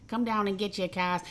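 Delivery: imitated Boston car-lot pitch; mock Boston accent for a radio commercial; lightly imitated Boston salesman. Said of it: "it's a hard Boston".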